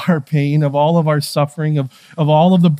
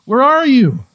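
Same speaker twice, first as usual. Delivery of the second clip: put-on higher-pitched kid's plea; imitating a calling kid; 6 semitones higher than usual. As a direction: call out like a child wanting an answer. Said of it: "Almost like a kid, right?".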